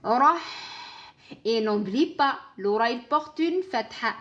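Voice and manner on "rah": "Rah" said loud with an open, emphatic r; flowing ha. Shown as a demonstration. Teacher modelling the syllable for the student. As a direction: let the ha of "Rah" flow. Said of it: "Laisse couler le ha soukoun".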